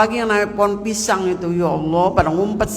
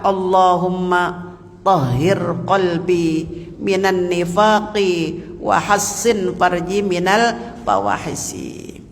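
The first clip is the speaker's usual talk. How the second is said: slow, lower-pitched chanted supplication; Arabic prayer recitation; 3 semitones lower, slower than usual. Shown as a demonstration. (lantunan doa Arab yang pelan)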